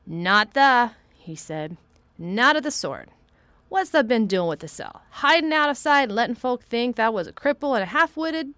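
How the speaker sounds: gruff Yorkshire scolding; a hint of a gruff old Yorkshireman; Yorkshire gardener. Ben voiced in dialect.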